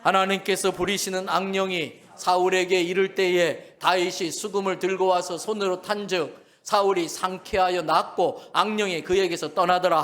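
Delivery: loud communal scripture reading; congregation reading scripture. Real, not acted. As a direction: read it out together, steady and loud. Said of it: "다 같이 읽습니다". (다 같이 소리 높여 성경 봉독)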